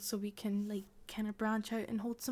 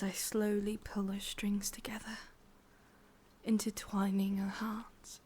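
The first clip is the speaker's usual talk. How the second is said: whispering witch. Acted. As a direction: breathe it close to the ear, sweetly menacing. ASMR witch roleplay.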